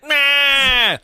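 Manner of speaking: playful shout. Real, not acted.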